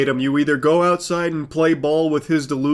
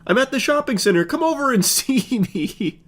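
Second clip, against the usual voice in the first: mock stalker voice; 9 semitones higher than usual. Mocking the stalker's text.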